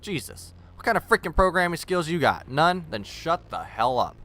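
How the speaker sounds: mock-furious rant at commenters; angry rant. Real, not acted. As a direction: tell the critics off hard. Ranting back at critics.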